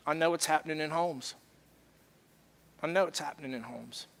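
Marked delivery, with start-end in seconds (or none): 2.8-4.1 softer, lower echo of the line; hushed repeat. Real, not acted. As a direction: let it sink in, quietly. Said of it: "repeated for emphasis".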